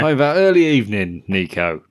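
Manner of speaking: put-on brisk line in an English accent. Co-host answers what time the night starts, in an English accent. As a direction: play it very English, quick. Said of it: "with such an English accent like he did".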